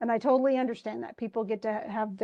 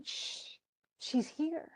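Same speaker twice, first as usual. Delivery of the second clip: whispered, quieter warning; hushed whisper; 4 semitones higher, 8 dB quieter, much slower than usual. Retold or imitated. Nora hushes Rank because Mrs Linde is near, soft whispered warning. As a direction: hush him as she arrives.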